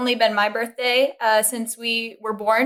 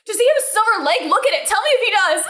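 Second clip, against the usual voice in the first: quoting a text; 9 semitones higher than usual. Retold or imitated. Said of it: "She's texting me".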